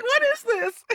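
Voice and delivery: mock baffled what is this; baffled quote. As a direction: play up the confused reaction. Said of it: "I was like".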